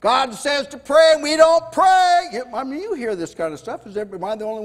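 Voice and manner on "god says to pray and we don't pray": mock casual confession, raised and louder; churchgoers' excuse. Preacher mocking church folk admitting they disobey, louder. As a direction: shrug it off with a careless tone. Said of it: "who say".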